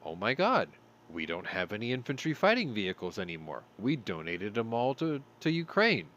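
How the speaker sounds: a touch of hammed-up panic; mock panicked Greece. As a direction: play Greece, mildly flustered. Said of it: "Greece turns around and says".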